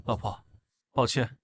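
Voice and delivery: low, soft, sincere apology; tender apology. Acted. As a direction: apologize quietly to your wife. Confesses secret to his wife.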